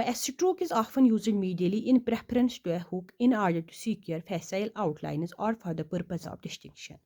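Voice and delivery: slow, careful dictation of the rule; slow textbook dictation; reading the rule aloud. Shown as a demonstration. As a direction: read the textbook line slowly for students to copy. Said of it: "हमें याद रखना होगा".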